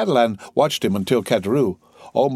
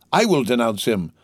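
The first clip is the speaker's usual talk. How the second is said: ordinary delivery, nothing marked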